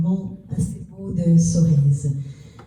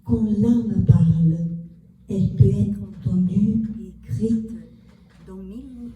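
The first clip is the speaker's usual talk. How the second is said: measured poem recital with long pauses between lines; poetry reading. Acted. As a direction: read your poem aloud, phrase by phrase. Poet reads own poem aloud. (lecture de poème, posée, avec des pauses)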